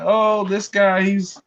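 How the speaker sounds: imitating doubters. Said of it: "they're like".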